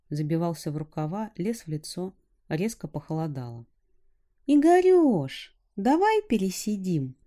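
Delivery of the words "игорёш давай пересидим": shouting over wind. A narrator's reading. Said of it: "перекрикивая ветер".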